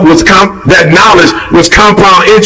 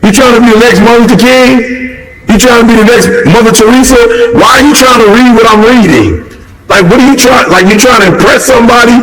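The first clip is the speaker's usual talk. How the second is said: fast, needling mock questions, pitched up; mocking imitation; 3 semitones higher, faster than usual. Mocking people who copy his early reading, fast and needling. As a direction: tease them like a nosy copycat.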